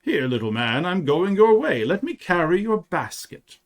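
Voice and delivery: a touch of gruffness in a brisk offer; gruff stranger. A narrator's reading. Stranger offers to carry the boy's basket, mildly gruff. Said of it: "said in a gruff voice".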